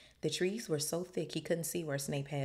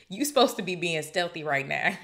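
holding back laughter; 2 semitones higher, 8 dB louder than usual. Real, not acted. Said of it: "I'm just trying not to laugh".

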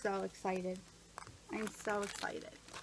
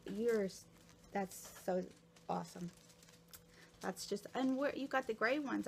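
ordinary talk

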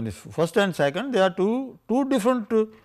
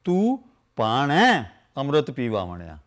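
recited scripture line. Shown as a demonstration.

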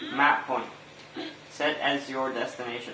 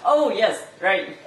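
chipmunk voice; 5 semitones higher, 5 dB louder, much slower than usual. Acted. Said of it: "Sound like a dying chipmunk".

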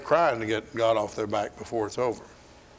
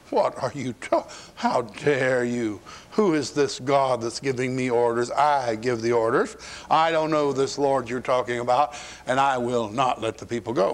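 arrogant Pharaoh. Retold or imitated. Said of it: "Notice this arrogance coming through".

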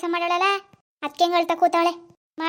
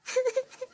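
short, soft sob; a quiet burst of crying; hurt, muted sobbing; 6 semitones higher, 8 dB quieter than usual. Acted. Wife sobbing after husband's scolding.

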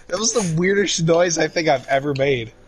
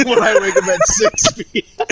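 laughing; 5 semitones higher than usual. Real, not acted. Laughing at own joke.

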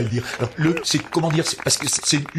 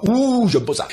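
higher, whinier "Ouh, j'aime pas ça"; whiny complaint; 7 semitones higher, 3 dB louder than usual. Acted. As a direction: moan the line up high.

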